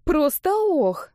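high, slow amused echo; mother echoing her friend with a barely hidden smile; echoing, holding back a smile. Acted. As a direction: echo her with a grin you can't hide. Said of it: "вторила ей Лидия, не в силах скрыть улыбку".

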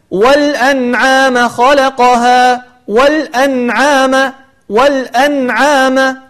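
والأنعام slow, nun clear before the ain; recited example. Shown as a demonstration. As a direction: chant والأنعام slowly.

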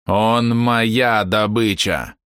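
slow, chittering monster voice; chirring insect voice. Acted. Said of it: "Стрекочущий голос".

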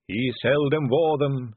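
a lightly voiced dour sister; gloomy lady. A narrator's reading. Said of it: "said another".

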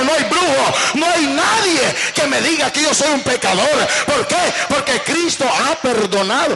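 proclamar con fuerza, frase tras frase; declaración de púlpito, firme y encendida; prédica enérgica. Acted. (proclamación enérgica de predicador)

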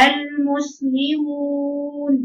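slow airy long vowel in المسلمون; breathy madd. Shown as a demonstration. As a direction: let breath leak on the waw of المسلمون. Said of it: "هجيب إزاي فيها الجرائم النفس". (مد بنفس في المسلمون)

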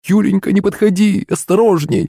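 high-pitched motherly warning; alarmed cry. A narrator's reading. Mother warning her daughter off a dragon, alarmed cry. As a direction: cry out high in alarm, without extra volume. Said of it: "вскрикнула Юлина мама".

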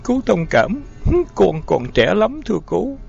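high, tearful pleading; still sobbing. A narrator's reading. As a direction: plead through the sobs. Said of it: "Giọng thằng Terry vẫn nức nở".

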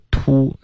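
"凸" with tightly rounded lips; pouted "too". Shown as a demonstration. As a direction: push the lips out on "凸". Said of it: "嘴唇会嘟起来". (嘟起嘴唇读"凸")

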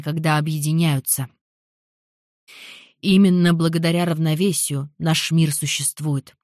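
lightly voiced rector's address; solemn announcing speech; formal speech. Rector's ball opening speech.

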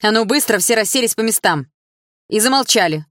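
teacher shouts the class into line; barking order. Acted. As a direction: bark it to restore order. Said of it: "рявкнула Атом".

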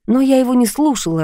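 ordinary delivery, nothing marked

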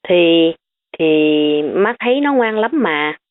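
mild hesitant stammer. Acted. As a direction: stumble over the first words before getting it out. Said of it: "Bà Kim ngắt ngứ".

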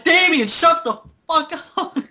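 put-on high, loud old lady voice; grandma voice. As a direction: snap like an annoyed grandma.

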